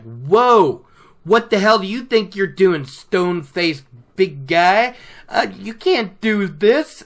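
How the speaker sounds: indignant. Retold or imitated. Ferryman protests as Lan grabs his wrist, mock indignation. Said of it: "he's even more angry".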